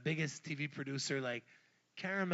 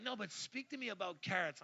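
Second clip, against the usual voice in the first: mock producer; 6 semitones higher than usual. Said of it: "they're like".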